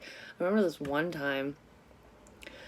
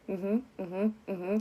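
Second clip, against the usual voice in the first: higher, repeated nervous little hums; imitated nervous agreement; 4 semitones higher, much slower than usual. Nervous employee listening to the boss, imitated anxious humming. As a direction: act out anxiously humming along. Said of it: "I would just be so nervous".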